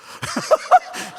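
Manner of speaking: high breathy burst of laughter; sudden high giggle; real laugh. Real, not acted. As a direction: laugh out at the memory. Laughs at his own zeal.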